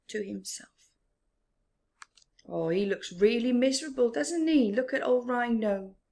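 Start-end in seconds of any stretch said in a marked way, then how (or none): 2.4-6.0 fast, louder, higher baboon voice; quick lightly voiced monkey; Baboon aside. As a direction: chatter to yourself about Rhino.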